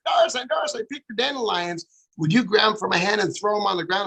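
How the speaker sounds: put-on high, light little-kid voice; child voice. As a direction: play her three-year-old self, excited. Child self voiced in story.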